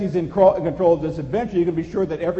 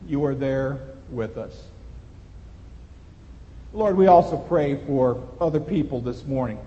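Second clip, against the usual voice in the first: low, measured public prayer; 3 semitones lower than usual. Real, not acted. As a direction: lead the congregation in prayer, pausing between phrases. Leads a closing prayer.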